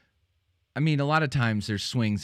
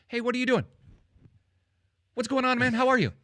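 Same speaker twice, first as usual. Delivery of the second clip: bright mock hello, pitched well higher; mock chipper greeting; 13 semitones higher, faster than usual. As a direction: greet him like an overeager pal. Retold greeting to man in shower.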